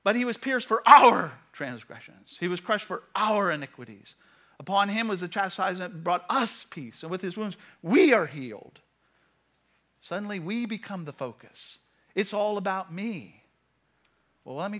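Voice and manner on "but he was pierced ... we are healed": "our", "us" and "we" punched loud; wrong emphasis on us. Shown as a demonstration. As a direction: hammer every "our", "us" and "we". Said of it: "a wrong emphasis, and I, and I highlighted".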